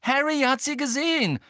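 loud, high-pitched exasperated outburst; snapping angrily. A narrator's reading. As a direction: snap at her, voice pitched right up. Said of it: "fuhr Ron sie nun an".

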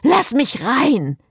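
high, drawn-out yell. A narrator's reading. Cécile demands her car open up, yelling. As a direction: yell to be let in. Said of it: "brüllte Cécile".

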